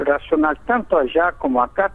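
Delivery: ordinary delivery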